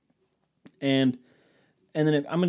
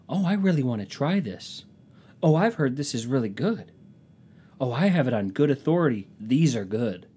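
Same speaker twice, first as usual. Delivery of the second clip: chatty cashier; 3 semitones higher than usual. Retold or imitated. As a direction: lightly voice a cashier commenting on groceries. Cashiers gush over his groceries.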